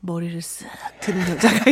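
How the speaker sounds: whispering. Retold or imitated. Telling a scary ghost painting.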